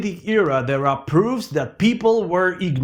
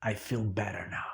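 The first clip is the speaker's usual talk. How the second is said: deflated; 9 semitones lower, 15 dB quieter, faster than usual. Acted. Deflated ending.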